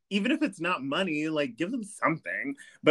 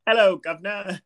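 mock British accent; 5 semitones higher, 4 dB louder than usual. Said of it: "impersonation of the British accent".

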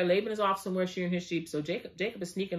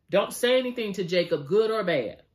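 stern command; 5 dB louder than usual. Retold or imitated. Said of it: "He said".

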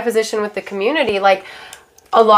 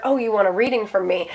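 softer, feigned innocent realization; quietly put-on cluelessness; playing dumb; 6 dB quieter than usual. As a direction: act as if it just dawned on you. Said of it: "I play it so dumb".

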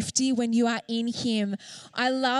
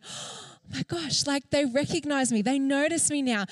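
awed mouse whisper; 3 semitones higher than usual. Acted. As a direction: breathe it like a thrilled little mouse. Mouse thrilled on lion's back.

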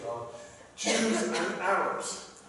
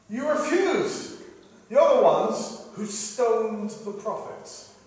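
slow, higher-pitched accusation; drawn-out, raised reproach to a crowd; preached rebuke; 5 semitones higher, 3 dB louder, slower than usual. Acted. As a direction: voice a deliberate rebuke from the pulpit. Preacher voices the Lord rebuking Jerusalem.

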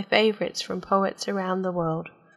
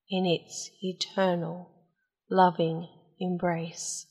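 hushed poem reading. Acted. Poet reading The Dark Embrace to listeners, hushed recital. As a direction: let each phrase sink gently away.

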